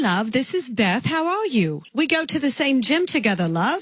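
lightly posh British lilt to win him over; a hint of a British accent; put-on English accent. Caller posing as an English girl on a prank call, light British accent. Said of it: "I'm from England".

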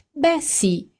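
mewing reply. Acted. Amanda mewing smugly at Fran. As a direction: coo it like a cat. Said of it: "miagolò Amanda".

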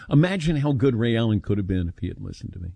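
dry, fast, mock-boastful aside; sarcastic. Real, not acted. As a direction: say it tongue in cheek. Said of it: "I say sarcastically".

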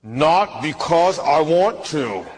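slow, laughing mock grumble. Preacher telling the clerk what he wanted to say, laughing slowly. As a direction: drag it out through a chuckle. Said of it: "And I felt like saying".

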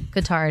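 Qatar as "kuh-TAR"; preferred pronunciation. Shown as a demonstration. Co-host accepting the country's wish, preferred pronunciation. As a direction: stress the last syllable of Qatar. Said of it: "Okay, well, then".

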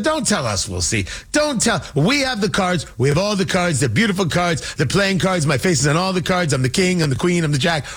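lightly voiced boastful president, not gritty; a self-admitted weak hint of Trump bragging; Trump impression. Host doing a bad Trump boasting about his cards. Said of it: "I really have a terrible impression of Trump".

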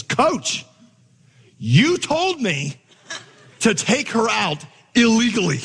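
put-on high, drawn-out child's protest; indignant innocent boy. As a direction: act out a wronged twelve-year-old's earnest plea. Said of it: "this indignant and innocent little twelve-year-old face".

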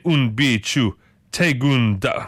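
put-on slow, unsure Dutch accent; amateur stab at a Dutch accent; attempted Dutch accent. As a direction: sound out the Dutch accent slowly. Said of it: "get better at these accents".

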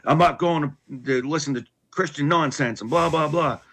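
mild mock tantrum; retold tantrum. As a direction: act out a dismissive little tantrum, lightly. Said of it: "I was in this big tantrum of".

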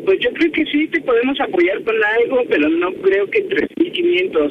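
ordinary talk

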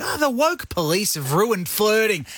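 slow, sarcastic grumble into a high that's cute; mock complaint. Host mocking complaints that flirting is ruined, sarcastic. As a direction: send up the woke police gripe.

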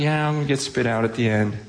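quick, offhand mock shrug; casual indifference. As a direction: toss it off as if it barely matters. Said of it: "you're just casually".

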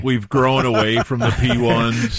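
a hint of a politician's speech; mock campaign speech; acceptance speech. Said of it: "quite an acceptance speech".

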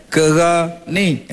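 "Kerani" stretched slowly; slow, drawn out. Shown as a demonstration. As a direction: lean on "Kerani" slowly for effect. (sebut "Kerani" perlahan dan panjang)

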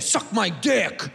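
slow, sour; negative. Shown as a demonstration. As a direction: say it like an insult. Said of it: "We say it negative".

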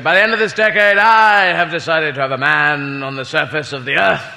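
lightly voiced prime minister's proclamation, slowing down; Harold Macmillan. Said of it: "he made a speech where he said".

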